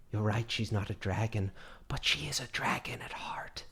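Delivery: soft, low confiding aside; leaning in, low. Acted. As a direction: lean down and murmur it. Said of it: "leans over and says".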